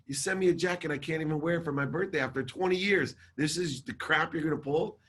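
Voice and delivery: high, incredulous complaint; retold indignation. Son confronting his dad over the jacket, indignant. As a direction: argue back in re-enacted outrage.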